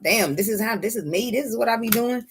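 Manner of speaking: soft, wondering aside; quiet self-realizing murmur; hushed realization. Retold or imitated. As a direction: breathe it like a discovery.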